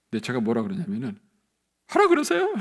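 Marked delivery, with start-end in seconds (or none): 1.9-2.5 very high, loud carefree shrug-off; breezy dismissal. Retold or imitated. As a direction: toss it off, amused and unbothered. Acted carefree reply to gossip, laughing after. (높은 목소리로 대수롭지 않게 넘기기)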